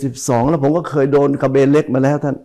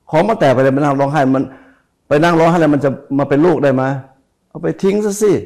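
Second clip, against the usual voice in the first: teacher's kind dismissal; 3 semitones higher, 3 dB louder than usual. Retold or imitated. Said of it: "อาจารย์ผมพูดอย่างเงี้ย".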